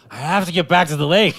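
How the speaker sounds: high, loud mock-desperate shout; mock desperate plea. Pulled-over mermaid explains the speeding to police, mock-desperate shout. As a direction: yell it like a hammed-up escaping mermaid. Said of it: "and be like".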